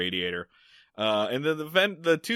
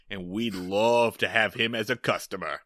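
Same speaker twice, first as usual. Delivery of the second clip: mild, low-key mob farmer voice; farmer's threat; 5 semitones lower than usual. Retold or imitated. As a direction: say it as a calmly menacing farmer.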